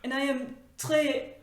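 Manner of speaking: hammed-up French chef voice; card speaking as a pompous French chef; mock French accent. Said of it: "the card saying".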